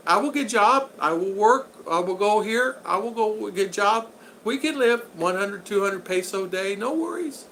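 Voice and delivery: high voice imitating a wife's simple English; Chicha. Wife promising her husband she will work, high-voiced imitation. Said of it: "She said".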